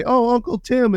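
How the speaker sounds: put-on kid voice. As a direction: imitate an excited little kid. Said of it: "they come and say".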